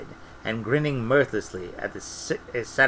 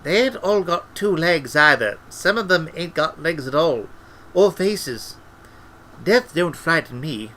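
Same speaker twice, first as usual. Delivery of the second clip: put-on higher, colloquial old man's voice; uneasy, animated wizard; Albert, uneasy old wizard; 5 semitones higher than usual. A narrator's reading. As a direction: confide a dread of what waits.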